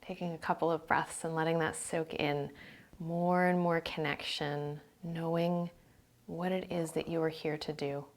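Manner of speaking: calm meditation voice, phrases spaced by silence; guided meditation. Real, not acted.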